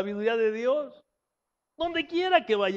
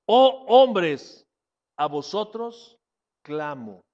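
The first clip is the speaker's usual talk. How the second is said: calling out; 2 semitones lower, 6 dB louder, much slower than usual. Acted. Preacher voicing Wisdom crying out.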